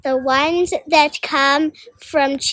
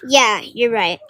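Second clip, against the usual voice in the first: sleepy yawn through the words; 4 semitones lower than usual. Acted. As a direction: say it mid-yawn. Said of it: "I say, yawning".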